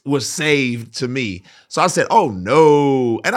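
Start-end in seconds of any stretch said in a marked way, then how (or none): 2.1-3.2 disdain. Retold or imitated. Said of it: "I said it with, like, disdain".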